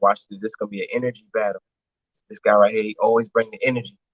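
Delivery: hushed, excited, half-whispered stage whisper. Retelling what was said to a team at a battle: retelling a half-whisper. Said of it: "I'm whispering back at him".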